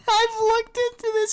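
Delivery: high teasing parody of friend; mocking imitation. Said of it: "he says".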